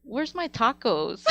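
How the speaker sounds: playful demanding mother voice; demanding mom. Retold or imitated. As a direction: draw out the mock demand. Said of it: "and then she's like".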